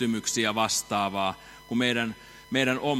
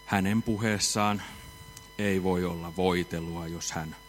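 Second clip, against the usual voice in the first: dry flat preacher; 6 semitones lower, 8 dB quieter than usual. Shown as a demonstration. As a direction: mimic a dull, monotone preacher quietly. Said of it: "puhuu tasaisella äänellä ja ääntä korottamatta". (hiljainen, tasainen ja kuiva saarnaajan ääni)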